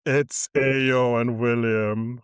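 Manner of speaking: measured, slightly projected presenter read with stretched names; podcast host intro. Acted. Host introduces the episode and co-hosts, slow announcer-style intro. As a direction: present the show and guests like an announcer.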